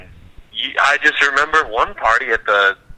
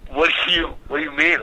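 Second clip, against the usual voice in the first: puzzled friend; 6 semitones higher than usual. Retold or imitated. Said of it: "He's like".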